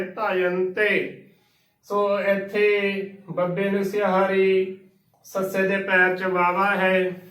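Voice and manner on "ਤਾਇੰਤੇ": ਤਾਇੰਤੇ drawn out as "taa-yan-te"; slow model of ਤਾਇੰਤੇ with falling end; shown pronunciation. Shown as a demonstration. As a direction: stretch each syllable of ਤਾਇੰਤੇ. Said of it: "ਉਚਾਰਨ ਕਰਨਾ ਹੈ".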